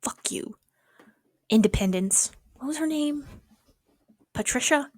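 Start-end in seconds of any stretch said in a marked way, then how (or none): 0.0-0.5 whispering. Real, not acted. Muttered insult at intern.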